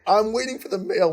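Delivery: giggling out the words; laughing hard while telling it. Real, not acted. Laughing while telling singlet story.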